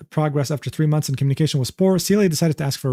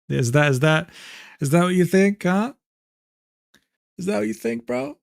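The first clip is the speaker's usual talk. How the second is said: mock challenge; 3 semitones higher than usual. Teasing chat about accent.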